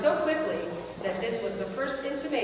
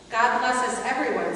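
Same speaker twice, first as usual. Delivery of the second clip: mildly voiced child; 4 semitones higher, 4 dB louder than usual. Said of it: "said Tiny Tim".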